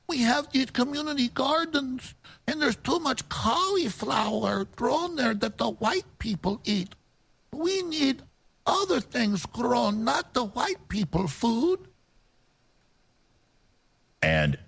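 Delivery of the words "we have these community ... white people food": high, slow mock Hispanic accent; fake Hispanic accent. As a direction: mimic a put-on Hispanic accent. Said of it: "she puts on a fake, I guess, Hispanic accent".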